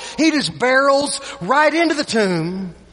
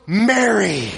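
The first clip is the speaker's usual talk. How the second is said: "Mary." said low and gentle, a loving call by name; tender call; 3 semitones lower than usual. Retold or imitated. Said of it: "just the way that he said it".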